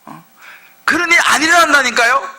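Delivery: lightly played irritated crowd; annoyed protest. People protesting prophet Micah, mock exasperated. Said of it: "이렇게 이야기해요".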